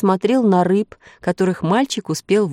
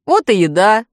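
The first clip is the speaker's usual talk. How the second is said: loud, eager exclamation; boy's exclamation; 3 semitones higher, 7 dB louder than usual. A narrator's reading. Hungry boy finding food, eager exclamation. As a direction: call it out as a happy find. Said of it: "воскликнул мальчик".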